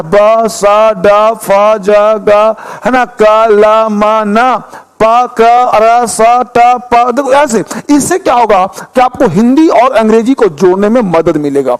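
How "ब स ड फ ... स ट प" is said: each letter as a short sound: "ब", "स", "ड"; phonics sounds. Shown as a demonstration. Teacher drilling the class on letter sounds. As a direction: call out the letter sounds one by one. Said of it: "आपको बोलना है".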